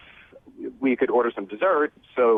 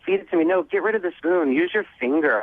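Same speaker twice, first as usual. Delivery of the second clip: higher, cooing flirty voice; 5 semitones higher than usual. Retold or imitated.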